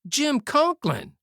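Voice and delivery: high, slow anguished scream of a name. Acted. Youth screaming at his wounded friend in horror. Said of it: "the youth screamed".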